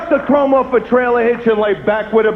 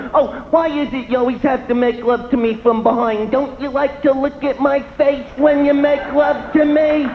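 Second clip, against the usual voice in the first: complaining wife; 5 semitones higher than usual. Retold or imitated. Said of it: "you'll hear stuff like".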